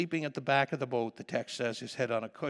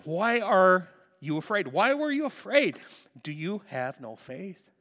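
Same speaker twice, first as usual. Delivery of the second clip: voicing Jesus; 4 semitones higher, 7 dB louder than usual. Jesus to his disciples after the storm, questioning their fear in a high loud voice. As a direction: press the frightened disciples with rising disbelief.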